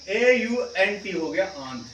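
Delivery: आंट with an open, long aa vowel, slow; aunt with long a. Shown as a demonstration. Teacher contrasting aunt with ant, long aa. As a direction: stretch the aa in आंट. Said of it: "इसमें फर्क है बोलना".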